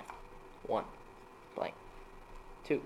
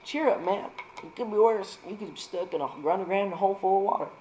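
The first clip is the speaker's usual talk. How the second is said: friend's cheery voice; 7 semitones higher than usual. Acted. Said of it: "My friend keeps saying".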